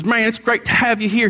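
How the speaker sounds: a hint of a Southern pastor; Southern accent. Pastor imitates a Southern pastor greeting him, light Southern accent. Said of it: "A little Southern accent".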